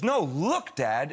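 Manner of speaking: high-pitched imitation of a small daughter; insistent child. Daughter makes dad look at drawing, insistent child. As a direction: demand attention like an impatient child.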